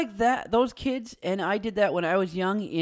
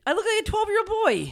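high squeaky voice; 12 semitones higher, 4 dB louder than usual. Real, not acted. Self-deprecating exaggerated whine.

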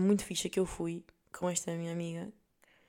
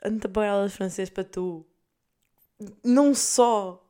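building mock scold, louder on não só; scolding mother; 5 dB louder than usual. Mother scolding daughter for skipping French, rising mock anger. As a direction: imitate an outraged mum. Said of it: "a minha mãe está a pensar".

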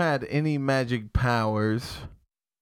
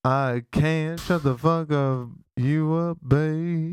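A singer's voice; slower than usual. Pretend. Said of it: "how long are you gonna talk like that for?".

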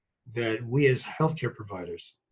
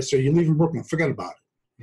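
Brooklyn accent; 4 semitones higher, 6 dB louder than usual. Shown as a demonstration. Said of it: "this is actually what I sound like".

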